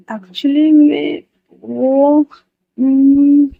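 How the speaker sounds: shy hesitation. A narrator's reading. Patient shyly confessing his crush to friend, hesitant. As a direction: stall bashfully before admitting a crush.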